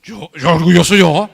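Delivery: indignant stammered denial; mock-offended denial; proud denial. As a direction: sputter in disbelief. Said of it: "lo primero que hace es decir".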